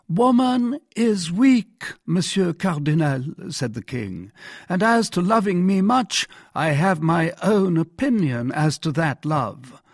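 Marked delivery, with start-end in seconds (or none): 0.1-3.2 high-pitched royal pronouncement; haughty monarch in a raised pitch; scornful king. Acted. 4.7-9.8 high-voiced, piqued monarch; higher royal voice, full of doubt; sceptical king.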